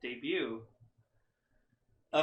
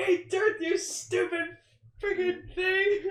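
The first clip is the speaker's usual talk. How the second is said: very high, loud cartoon shout; Earthworm Jim; 5 dB louder, slower than usual. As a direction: scream it like a cartoon worm hero. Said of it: "Dan Castellaneta's Earthworm Jim".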